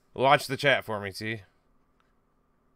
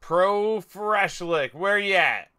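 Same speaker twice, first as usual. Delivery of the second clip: calling out; 5 semitones higher than usual. Real, not acted. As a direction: sing out the name, searching. Calling for an absent winner.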